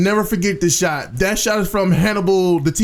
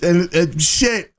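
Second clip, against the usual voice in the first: nervous stutter; much slower than usual. Real, not acted. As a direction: stumble over the words. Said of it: "I'm stuttering already".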